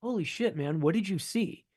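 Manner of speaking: high-pitched, hushed awe; awed question in a retold exchange; retold amazement. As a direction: re-enact stunned disbelief, softly and high. Reacting to photographer's astonishing story.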